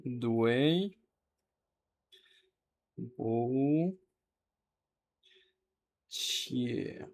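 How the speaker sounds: slow, one syllable at a time; isolated syllables. Shown as a demonstration. Teacher breaks the apology down, slow separate syllables. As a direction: hold each syllable, pausing between them.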